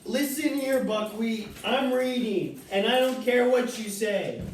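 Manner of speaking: high, firm telling-off; stern scolding. Real, not acted. Reader scolding Buckwheat for interrupting, high and firm. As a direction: put the pest in its place.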